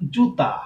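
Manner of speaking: জুতা slowly, long জু then open তা; জুতা separated and stretched for learners; careful pronunciation demo. Shown as a demonstration. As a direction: draw out both syllables of জুতা. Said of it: "যেমন আমরা যদি বলি".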